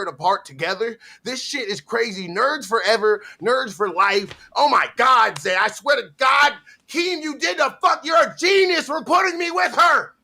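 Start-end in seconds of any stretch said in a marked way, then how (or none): 4.6-10.1 high excited shout; yelling with delight. Real, not acted.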